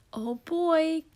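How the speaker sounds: excited breathy whisper. A narrator's reading. Cookie Monster watches Santa find cookies, whisper. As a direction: whisper so Santa won't hear. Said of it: "Cookie whispered".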